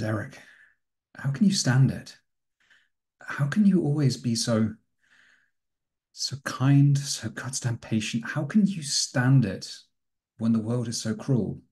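anguished plea. Acted. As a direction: beg him to explain how he stays so kind. Raymond pleads with his brother.

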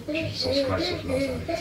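high, slow exasperated cry; exasperated exclamation. Acted. Husband exasperated by his wife's denials, exasperated cry. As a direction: throw it up to the heavens in disbelief.

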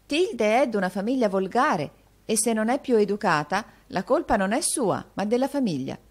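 high, emphatic lady of airs; condescending mistress. A narrator's reading. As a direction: excuse your friend with lofty condescension. Mistress condescends about friend.

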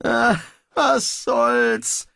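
slow, sighing surrender; resigned sigh. Acted. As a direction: give up with a long sigh. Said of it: "Pismeier seufzte erneut".

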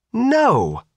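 high piercing scream of No. A narrator's reading. Sophia at the crowd, screaming as the door closes. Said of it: "Sophia screamed".

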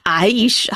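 careful "Aish" with rising end; practising pronunciation. Shown as a demonstration. Speaker practising with viewers, "Aish" carefully pronounced. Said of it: "I'm practicing with you guys".

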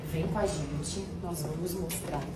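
slow, hushed backstage whisper; temple whisper. Real, not acted. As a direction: whisper so the live show can't hear. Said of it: "Aqui a gente tem que falar baixo".

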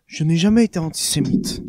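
mild, understated calm; calm confession. Acted. Hitler confiding calmly to the journalist, understated. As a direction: say it like a man past caring, lightly. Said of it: "avec le calme d'une personne revenue du tout".

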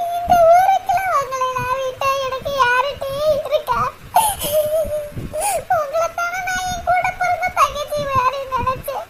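wounded elder sister weeping to her friends; tearful reproach. Acted. Rani hurt, friends hid things.

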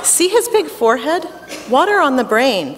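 put-on doctor with a thick Russian accent; lightly voiced Russian doctor. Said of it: "the doctor said in a thick Russian accent".

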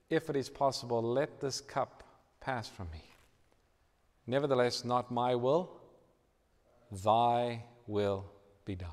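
quietly submissive, measured prayer; solemn prayer. Retold or imitated. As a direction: pray it gently, with long pauses. Jesus praying in Gethsemane, quoted.

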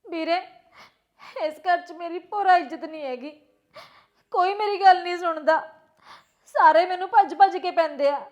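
tearful complaint with long pauses; halting, weepy grievance; crying. Acted. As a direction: pour out your hurt to your brother. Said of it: "ਤੂੰ ਰੋ ਨਾ".

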